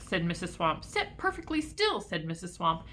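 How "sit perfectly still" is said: strict teacher. A narrator's reading. Miss Swamp scolds the class.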